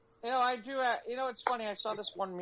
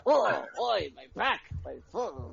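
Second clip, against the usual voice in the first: put-on old man voice. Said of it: "I haven't sounded very old man".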